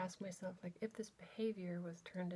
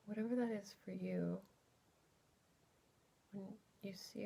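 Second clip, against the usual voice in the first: unhurried, exploratory guided body scan; guided meditation. Real, not acted. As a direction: gently lead listeners inward, leaving space between phrases.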